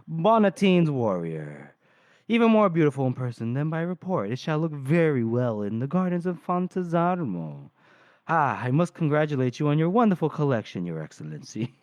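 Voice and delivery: lightly voiced art connoisseur; Ganmark. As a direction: admire it like a gallery visitor, measured and formal. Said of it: "acts like he's at the Metropolitan Museum of Art".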